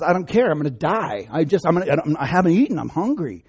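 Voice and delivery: hammed-up famished impatience; exasperated hunger. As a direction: whine it like someone starving. Acted starving Esau complaining to Jacob.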